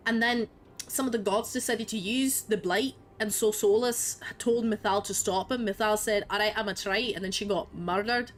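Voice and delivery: mock Scottish accent, playful retelling. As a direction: tell the story in a put-on Scottish lilt. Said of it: "speaking with a Scottish accent if you like".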